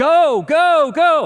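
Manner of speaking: high, mock urgent, commanding scream. Retelling screaming at a tired girl near a coiled snake, retelling a scream. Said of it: "And I start screaming".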